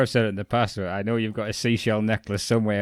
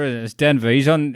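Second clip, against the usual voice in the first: ordinary talk, nothing marked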